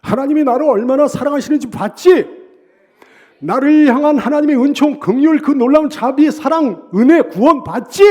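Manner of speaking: loud, high shout of vindication; exultant preacher's shout; triumphant boasting. Acted. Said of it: "자기의 입이 크게 열렸다는 거예요".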